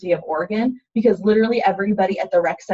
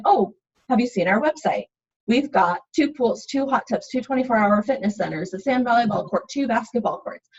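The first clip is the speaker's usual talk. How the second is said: listing off amenities; 3 semitones higher than usual. Shown as a demonstration. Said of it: "not super checklisty".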